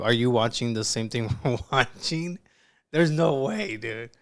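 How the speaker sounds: can't believe what you're hearing; incredulous. Real, not acted. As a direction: pitch climbing in amused disbelief. Reactor in disbelief at what he watches.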